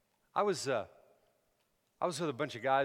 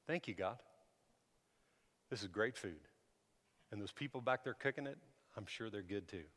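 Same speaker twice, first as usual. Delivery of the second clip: softer, halting table prayer; simple humble prayer; 3 semitones lower, 8 dB quieter than usual. Retold or imitated. New believer blessing the food, humble and quiet. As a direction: pray quietly, feeling for the words. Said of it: "He goes".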